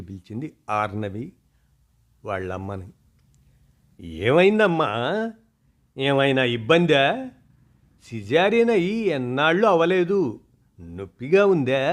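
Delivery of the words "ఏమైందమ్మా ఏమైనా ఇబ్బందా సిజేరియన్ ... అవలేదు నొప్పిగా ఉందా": higher, louder anxious questions; worried mother. Acted. Mother anxiously asking daughter after her caesarean, worried. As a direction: fret over her as if she's in pain. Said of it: "గాబరా పడింది".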